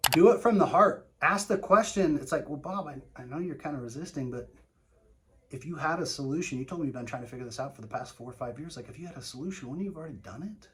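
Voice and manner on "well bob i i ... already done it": quiet, friendly, coming down in tone; coming down softly. Shown as a demonstration. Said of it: "notice my tonality".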